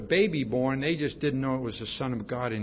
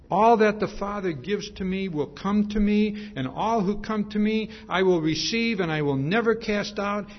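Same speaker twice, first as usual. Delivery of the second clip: higher and louder, proclaiming the verse; booming scripture quote; 7 semitones higher, 4 dB louder than usual. Acted. Preacher proclaims Jesus' words to the congregation, booming. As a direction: ring it out like the Lord speaking.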